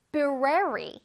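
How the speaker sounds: brary said alone as a clear separate chunk; split syllable drill. Shown as a demonstration. Teacher breaking library into parts for kids. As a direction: chop off brary and say it on its own. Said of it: "B R A R Y를 잘라서".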